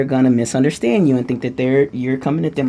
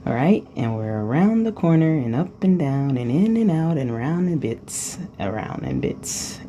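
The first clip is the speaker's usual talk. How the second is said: fading trance murmur; 5 dB quieter than usual. Acted. Trance talk fading into relaxation.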